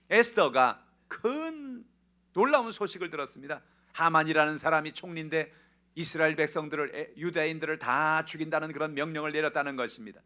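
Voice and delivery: urgent, loud sermon narration; forceful preaching. Real, not acted. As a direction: proclaim the alarming news from the pulpit.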